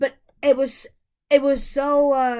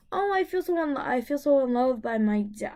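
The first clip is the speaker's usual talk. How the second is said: crying. Real, not acted.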